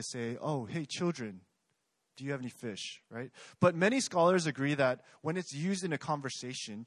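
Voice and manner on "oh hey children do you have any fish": talking down to them, a touch softer; mildly patronizing call to the fishermen; condescending. Retold or imitated. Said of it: "it sounds a bit condescending".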